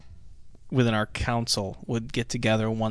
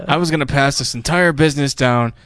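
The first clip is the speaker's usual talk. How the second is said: hammed-up proud father; 6 dB louder than usual. Acting Mike's speech about his son.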